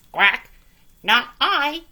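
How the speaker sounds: loud quacky refusal; a duck flatly refusing. A narrator's reading. Duck refusing the hen, loud and high. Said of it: "said the duck".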